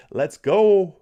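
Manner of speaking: loud, high rallying cry; hyped-up shout. Retold or imitated. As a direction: belt out a fan's hype message. Reads out viewer's hype message.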